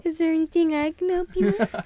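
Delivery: mock Leo voice. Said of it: "the inflection of his voice".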